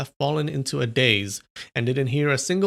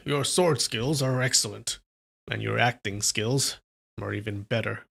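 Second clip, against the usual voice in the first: sneering; 3 semitones lower, 4 dB quieter than usual. Acted. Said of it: "Yue Buchun said with a sneer".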